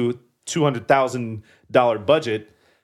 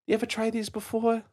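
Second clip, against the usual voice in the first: high, softer New York mom voice; New York accent; 10 semitones higher, 5 dB quieter, faster than usual. Acted. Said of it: "I don't know why I'm doing New York".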